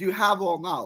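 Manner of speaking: plain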